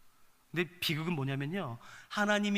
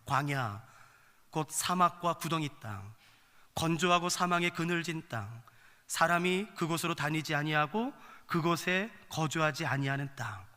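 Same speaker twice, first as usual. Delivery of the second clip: slow, lower Bible reading; scripture reading; 3 semitones lower than usual. Acted. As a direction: read the verse out slowly and solemnly. Reads scripture aloud.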